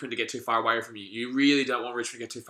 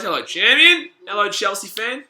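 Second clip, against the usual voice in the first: cheery greeting; 6 semitones higher, 8 dB louder than usual. Real, not acted. Greeting a chat viewer.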